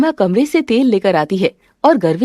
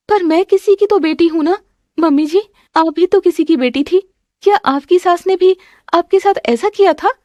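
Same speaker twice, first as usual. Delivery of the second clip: higher-pitched wounded voice; aggrieved young wife's appeal; hurt daughter-in-law, pleading; 8 semitones higher than usual. Acted. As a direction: plead with mother-in-law for fairness.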